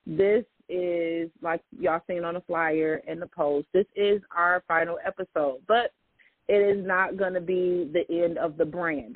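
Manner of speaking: ordinary delivery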